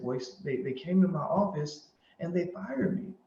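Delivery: retold sadness. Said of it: "She sounds sad".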